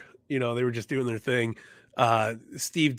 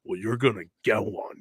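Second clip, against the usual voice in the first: Scott Hall impression; 5 dB louder than usual. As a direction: throw the challenge like a threat. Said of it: "Scott Hall, man".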